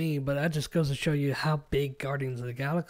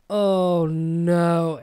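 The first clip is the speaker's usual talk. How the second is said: dismayed outcry; 2 semitones higher, 7 dB louder than usual. Retold or imitated. Viewer retells feeling tears coming at the movie, dismayed outcry. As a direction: wail it in mock dread.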